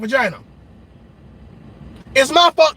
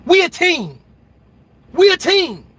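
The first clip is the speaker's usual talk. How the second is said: supportive partner; 2 semitones higher than usual. Retold or imitated. Imitating a partner who backs him up. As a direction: cheer him on like a teammate. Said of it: "somebody to promote you and say".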